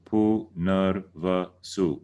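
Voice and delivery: Punarvasu very slow with short a sounds; slow teaching Punarvasu with no long a. Shown as a demonstration. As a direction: spell out Punarvasu slowly, poo-nar-va-soo. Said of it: "no long A's".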